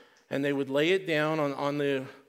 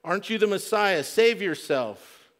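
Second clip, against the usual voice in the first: lightly acted taunt, raised voice; hurled insult; 4 semitones higher, 3 dB louder than usual. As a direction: throw it out as a jeer. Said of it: "hurled insults at him".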